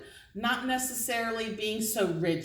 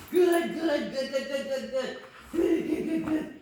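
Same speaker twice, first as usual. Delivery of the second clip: excited praise; 4 semitones higher, slower than usual. Real, not acted. Praising dog during tug.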